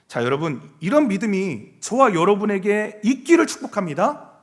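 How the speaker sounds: normal talking voice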